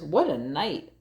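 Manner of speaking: muttering mole. Acted. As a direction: mutter it like a grumpy little mole. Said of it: "Mole mutters".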